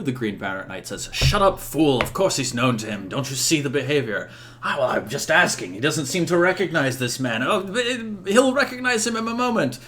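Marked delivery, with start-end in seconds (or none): 1.1-4.3 loud opening rebuke, then easing; mock-irritated knightly squabbling; bickering knight. Bickering knights, one snaps at other. 4.6-9.8 whiny comic bickering, rising in pitch; squabbling protest. Acted. Bickering knights protest back and forth.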